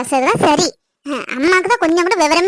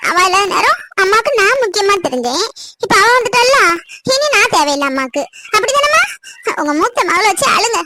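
tearful complaint; 3 semitones higher than usual. Acted. Daughter hurt, feels unwanted.

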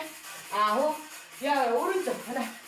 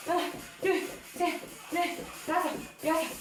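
barking gym coach. Acted. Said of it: "빠르게".

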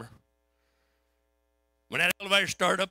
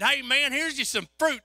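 nervous; 7 semitones higher, 5 dB louder than usual. Retold or imitated. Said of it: "I almost got alarmed".

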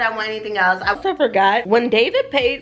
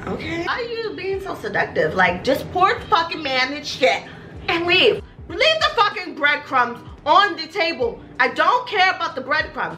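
higher, exasperated inner rant; 5 semitones higher than usual. Retold or imitated. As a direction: roll your eyes at the waiter, voice raised in pitch. Retelling her annoyed inner thoughts.

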